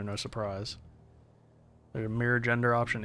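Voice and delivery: put-on a light, half-done Jamaican accent; a hint of Jamaican lilt for the seller; mild Jamaican-accented dealer. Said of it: "a Jamaican accent?".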